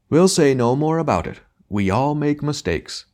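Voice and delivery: high, slow, hammy stage wail; grand tragic wailing. Acted. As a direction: play the old-school tragedian, overblown. Tragedian's hammy magnanimity.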